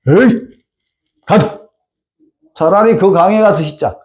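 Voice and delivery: mock angry grumble; a general huffing, half-acted; acting angry. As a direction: scoff and storm off in a huff. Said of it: "분한 모양으로 화를 내면서".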